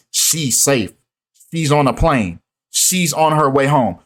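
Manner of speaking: flat, monotone robotic delivery. Retold or imitated. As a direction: read it like a robot, no feeling. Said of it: "This robotic ass way of speaking".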